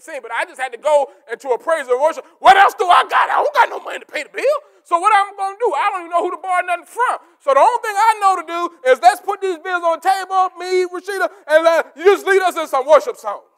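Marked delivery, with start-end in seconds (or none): 2.4-13.4 high, shouted preaching cry; full-force preacher's shout of need. Acted.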